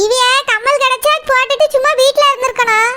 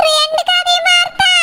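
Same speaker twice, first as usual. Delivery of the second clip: higher-pitched, appalled question; shocked question; 5 semitones higher than usual. Acted. Daughter hears of mother's cut ears, shocked. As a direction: cry out in horrified disbelief.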